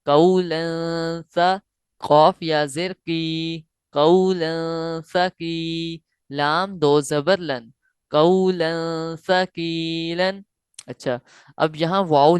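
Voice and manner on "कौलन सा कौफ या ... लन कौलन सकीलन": very slow syllable-by-syllable recitation; spelling recitation. Shown as a demonstration. Teacher spelling out the phrase for students, slow recitation. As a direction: build the word slowly, chant-like. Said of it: "सा जबर सा".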